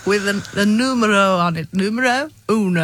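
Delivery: lightly put-on Italian accent; best Italian accent. Ticket loser describing the slip to the depot, attempted Italian accent. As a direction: play it as a makeshift Italian. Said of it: "in your best Italian accent".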